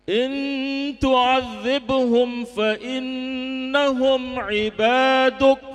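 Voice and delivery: slow, sung Quranic recitation with a hint of weeping; tearful recitation. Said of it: "sambil nangis". (lantunan ayat sambil sedikit menangis)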